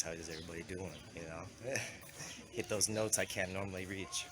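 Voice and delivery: low-pitched cold voice; real cold, voice dropped low; voice affected by a cold. Real, not acted. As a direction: talk through a head cold. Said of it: "I do have a cold".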